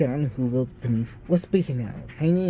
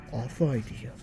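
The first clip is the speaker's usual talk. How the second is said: softer, sly awful idea; 3 semitones lower, 6 dB quieter than usual. A narrator's reading. Grinch hatching his plan, sly and soft. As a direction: savour the word awful quietly.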